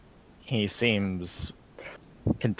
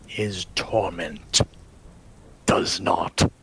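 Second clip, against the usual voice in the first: brooding vampire lord. Acted. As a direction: speak as a weary, cursed lord in a hushed voice. DM voicing vampire lord Vladimir.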